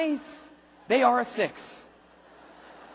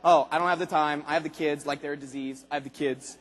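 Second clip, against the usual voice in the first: a hint of a complaining prospect; whiny excuse-maker; 8 semitones lower than usual. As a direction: whine like someone dodging work. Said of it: "They say stuff to like".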